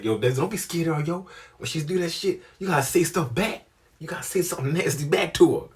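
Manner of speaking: imitated peer pressure; urgent egging-on. Friends urging him in retelling.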